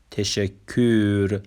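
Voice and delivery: تشکر said slowly as Turkish teşekkür, every syllable clear; Turkish word demo. Shown as a demonstration. Teacher models Turkish thanks for Persian learners, slow and clear. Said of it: "اصطلاحاتمون رو به ترتیب بخونیم".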